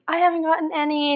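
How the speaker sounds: high, pitiful mock complaint; playful sad-sack voice; sad little man. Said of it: "This sad little man".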